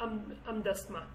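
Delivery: "am dastma" ending in open -ma; other-accent form. Shown as a demonstration. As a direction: end "am dastma" on the vowel a. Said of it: "So I don't say".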